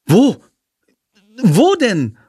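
put-on boy shouts excitedly jumping from the car; excited call. A narrator's reading. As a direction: call out eagerly, looking around. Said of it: "ruft Jendrik aufgeregt".

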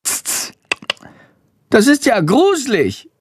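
high, squeaky bat, appalled; tut, then squeak like a creeped-out bat; small bat voice finding it creepy; little bat voice. Acted. Narrator voices the bat Chandor.

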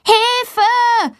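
high-pitched cry for help; a girl stuck on a stall door crying high for help. A narrator's reading. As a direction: call Hilfe as if with all her strength. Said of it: "ruft Valentina so laut sie kann".

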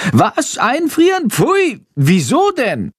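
very high, appalled squeal; high character voice, aghast; horrified screech. A narrator's reading. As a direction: screech it in horror, high-pitched. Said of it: "kreischt Chandor entsetzt".

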